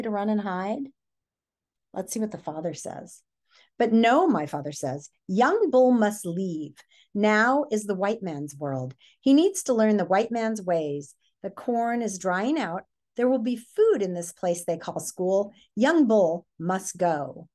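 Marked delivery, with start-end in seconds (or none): 3.8-4.3 louder, firm refusal; the father insists; father's firm voice. Acted. Father answers in story. 5.3-17.5 slow, grave, louder father; father's decree. Acted. Father speaks in story.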